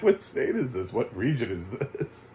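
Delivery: lightly exaggerated regional drawl on baffled questions; imitated regional drawl. Viewer asking what region this is, mimicking the drawl. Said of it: "That's pretty close".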